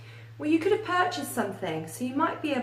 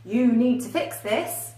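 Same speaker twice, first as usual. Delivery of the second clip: blunt, firm demand, a bit louder and slow; 5 dB louder than usual. Shown as a demonstration. Teacher demonstrating a rude demand, blunt and firm. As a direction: state it as a flat order. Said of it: "Instead of saying".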